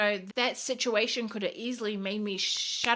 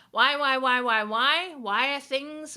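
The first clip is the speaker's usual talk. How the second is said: insistent why; 5 semitones higher, 6 dB louder, slower than usual. Acted. Hammering her viewers with questions.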